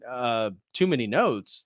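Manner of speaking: lightly voiced Mozart, taken aback and slow; offended Mozart. Mozart repeating the emperor's words back, slow and offended. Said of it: "He's like".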